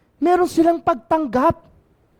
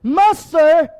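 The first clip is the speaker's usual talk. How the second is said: raised voice calling across a distance; louder plea to the Master; 3 dB louder, much slower than usual. Acted. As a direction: call to Jesus from far away. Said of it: "And called out in a loud voice".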